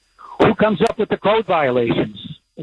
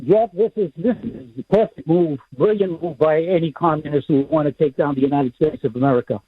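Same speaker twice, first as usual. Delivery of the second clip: muffled voice, away from the phone; muffled, talking away from the phone. Real, not acted. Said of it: "very muffled".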